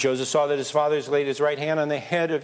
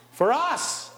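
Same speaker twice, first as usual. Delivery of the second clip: much higher ringing call; rallying cry; 10 semitones higher, much slower than usual. Real, not acted. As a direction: lift them up. Preacher rallies the congregation.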